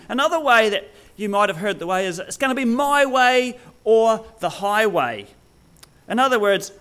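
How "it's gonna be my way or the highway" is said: higher-pitched, mock-authoritative announcement; bossy declaration. Preacher acting someone who is in charge, bossy. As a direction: lay down the law. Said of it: "I'm in charge".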